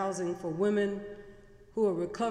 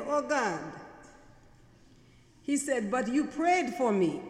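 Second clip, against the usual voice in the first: shocked dismay; 5 semitones higher than usual. Retold or imitated. Shocked man retold.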